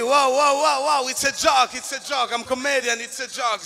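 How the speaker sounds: loud, hurried backpedalling wow wow; calm the officer down in a panic; comic panicky backpedal; panicked protest. Retold or imitated.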